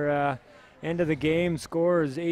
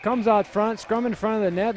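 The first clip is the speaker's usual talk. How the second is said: louder, lifted hockey call; live play-by-play; 3 semitones higher, 3 dB louder than usual. Real, not acted. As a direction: call the breakaway as it unfolds.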